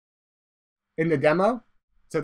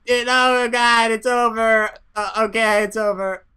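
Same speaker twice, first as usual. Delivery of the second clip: from slightly raised whimper down to a small, weak yay; pilot's panic fading. Acted. Voiced pilot calming after explosion.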